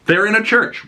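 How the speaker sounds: high and sneering; lightly voiced jerk from the game; mocking Seth. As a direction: needle them like a smug jerk. Seth scolding the couple.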